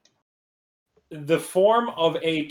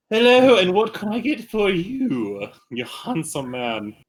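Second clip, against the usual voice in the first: slow flirty saleswoman; flirty merchant; 4 semitones higher, slower than usual. Acted. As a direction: draw out the flattery.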